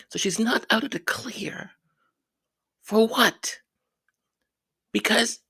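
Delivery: whisper. Real, not acted. Sceptical aside to viewers.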